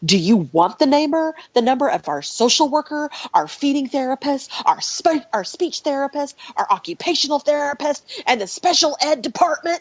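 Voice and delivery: fierce, high, sassy protective tone. Mother retells what she said to a woman, in sassy mama-bear tone. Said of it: "Like in my sassy mama bear tone".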